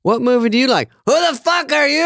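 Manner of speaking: put-on little girl. Little girl snapping back at him, high childish mock voice. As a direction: play the girl's rude little retort. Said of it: "The little girl looks at me and I go".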